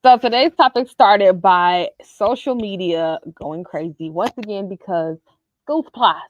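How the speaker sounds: muffled, like through a wall. Real, not acted. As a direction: dull sound, as if behind a wall. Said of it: "You sound like you a little muffled".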